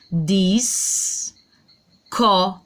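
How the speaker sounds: "Dis, co" broken into two syllables; split syllables. Shown as a demonstration. Teacher splitting "disco" into syllables for pupils. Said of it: "ó o som do S".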